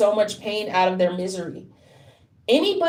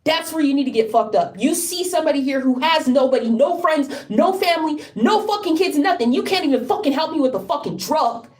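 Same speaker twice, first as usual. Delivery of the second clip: real anger in a raised pitch; angry outburst; 4 semitones higher than usual. Real, not acted. Speaker accuses people who won't help, anguished anger. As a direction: lash out in desperate, high-pitched frustration. Angry rant at those not helping.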